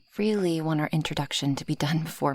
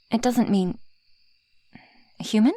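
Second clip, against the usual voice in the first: higher, rising worry, building to a loud call; alarmed, louder and higher; sudden alarm; 6 semitones higher, 5 dB louder than usual. Acted. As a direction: call out to someone who is passing out. Listener starts passing out mid-speech.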